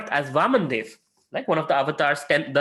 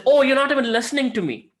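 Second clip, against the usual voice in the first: higher, whiny mock wife voice; hurt complaint; 9 semitones higher, 4 dB louder, faster than usual. Wife complaining her husband won't listen, high and whiny. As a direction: plead to be heard, half-mocking.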